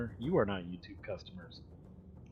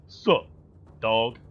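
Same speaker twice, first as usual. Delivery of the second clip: mock chatter greeting; 8 dB louder than usual. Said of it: "And he says".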